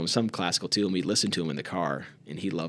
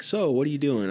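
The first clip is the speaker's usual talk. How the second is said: lightly voiced old man asking, a bit higher; a hint of eager Roger asking; retelling how the old man always asked; imitating Roger's question; 7 semitones higher than usual. Roger asking what he's up to.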